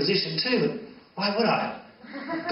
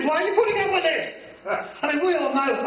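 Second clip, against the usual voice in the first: high fast mock outrage; 9 semitones higher than usual.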